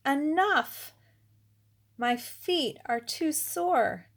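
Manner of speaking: a tired king crying out to stop the dance; king's cry of enough. Acted. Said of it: "when the king cried".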